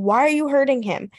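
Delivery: lightly acted plea to a misbehaving child; scolding parent. Parent questioning child, retold.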